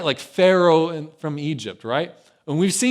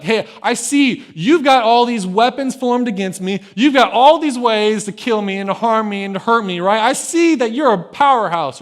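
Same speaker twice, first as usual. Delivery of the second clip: raised, louder paraphrase of a challenge; smack talk; 4 semitones higher, 6 dB louder than usual. Retold or imitated. David taunts armed Goliath, bold smack talk. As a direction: talk smack, lightly acted. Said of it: "the coolest smack talk".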